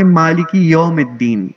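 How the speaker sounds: lightly voiced older scholar reciting slowly; a hint of Dr Israr's reciting style; mild imitation of a scholar's recitation, a little slow; imitating Dr Israr. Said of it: "وہ پڑھیں گے تو وہ پڑھیں گے".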